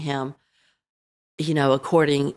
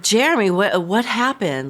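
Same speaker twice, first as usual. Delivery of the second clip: alarmed, rising pitch, a little louder; panicked; 5 semitones higher, 4 dB louder than usual. Retold or imitated. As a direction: relive the shock of finding him. Finds son collapsed on floor.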